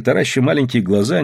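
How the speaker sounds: ordinary delivery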